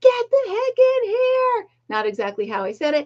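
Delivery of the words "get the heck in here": mock shout, higher. Retelling calling another person into the room during chaos: retelling a yell. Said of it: "I yelled to Mister Fortune".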